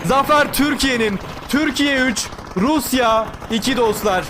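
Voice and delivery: final call, slowing for the score; victory play-by-play. Real, not acted. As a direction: announce the win to viewers. Calls the final kill and score. (zaferi ilan eden maç anlatımı)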